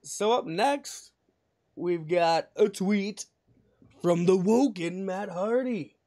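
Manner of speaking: slow, stretched-out introduction; drawn-out show intro; mock announcer intro. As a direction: announce it slowly with playful pomp.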